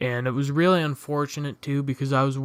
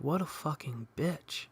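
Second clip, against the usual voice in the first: much softer, hushed aside; whisper; 10 dB quieter than usual. Retold or imitated. Teen whispers an insult to his friend, hushed. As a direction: whisper it so she can't hear. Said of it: "I just whisper to my friend".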